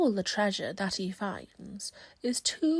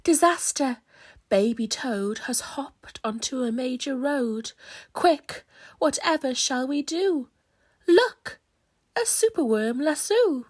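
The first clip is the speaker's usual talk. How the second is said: alarmed calls; 2 semitones higher, 4 dB louder than usual. Acted. Garden creatures call for help.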